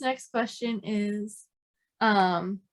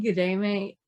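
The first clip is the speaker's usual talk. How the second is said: put-on Aussie accent; Australian accent; 4 semitones lower than usual. Shown as a demonstration. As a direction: lower Australian greeting. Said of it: "have to start by saying".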